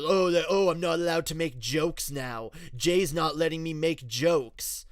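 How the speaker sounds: a friend, annoyed at being asked to stop joking, mock offended; mock indignant. Hammed-up offended whine. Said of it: "got mad".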